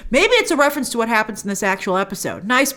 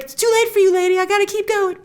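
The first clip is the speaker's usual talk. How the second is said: retold brush-off; 9 semitones higher than usual. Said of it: "He's like".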